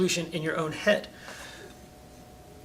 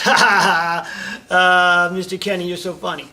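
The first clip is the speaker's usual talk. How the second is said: put-on a kid who finds the push funny; kid laughing; 8 dB louder, slower than usual. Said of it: "and the kid laughs".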